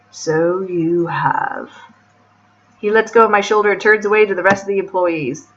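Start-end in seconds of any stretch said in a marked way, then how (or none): 0.1-1.7 very slow, stretched "So you have"; drawn-out reply. Acted. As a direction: linger on every word of the answer. Boss answers, retake drawn out further.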